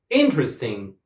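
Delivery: "Interesting" stressed on IN; stress on first syllable. Shown as a demonstration. Teacher models the word for students to repeat, stress on IN in "Interesting". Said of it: "put the stress on the first syllable".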